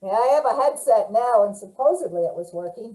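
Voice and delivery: muffled headset sound; muffled voice through a headset. Real, not acted. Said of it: "you sound muffled".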